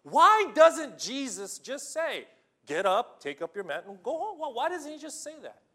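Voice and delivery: an emphatic preacher's question; rising challenge. Acted. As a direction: press the congregation hard.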